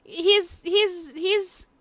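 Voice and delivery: high, loud courtroom declaration; defense lawyer, insistent. Acted. Lawyer revealing the blackmail letter's real target, urgent. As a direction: declare it forcefully, as if cracking the case. Voices lawyer making accusation.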